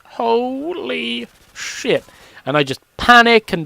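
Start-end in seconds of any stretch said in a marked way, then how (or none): 0.0-2.0 stunned gasp. Retold or imitated. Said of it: "I'd just be like".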